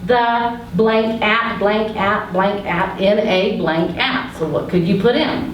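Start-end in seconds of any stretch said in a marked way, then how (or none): 0.0-4.3 slow template reading. Shown as a demonstration. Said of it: "like you write on the board".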